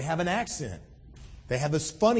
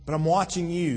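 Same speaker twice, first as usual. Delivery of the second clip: reassuring God; 2 semitones higher than usual. Retold or imitated. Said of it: "God, you know, reminding his children".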